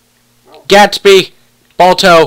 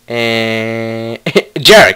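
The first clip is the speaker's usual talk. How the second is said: laughing; 7 semitones lower, much slower than usual. Real, not acted. Laughing while calling the wolf.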